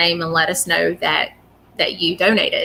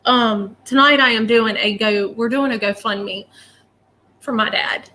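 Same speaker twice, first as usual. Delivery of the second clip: tearful, voice a little raised, fading at the end; crying; 3 semitones higher than usual. Real, not acted. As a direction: push on through real tears. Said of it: "for crying and acting a fool".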